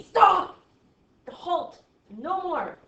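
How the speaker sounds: high, loud commanding shout; screaming bracket. Acted. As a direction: yell it like an order to halt. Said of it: "that end bracket screams at me".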